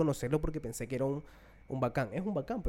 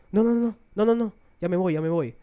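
put-on hurried refusal in a light Rioplatense accent, louder and higher; Uruguayan-Argentine accent; 5 semitones higher, 8 dB louder than usual. Footballer refusing the dad's photo request, mock Uruguayan-Argentine accent. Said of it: "con su acento uruguayo, argentino".

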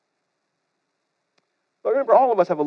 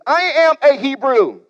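proud quote; 4 semitones higher than usual. Acted. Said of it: "that Jonah says is".

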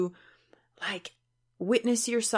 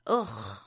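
groan of heaviness; 10 semitones lower than usual. Acted. Acting out feeling low.

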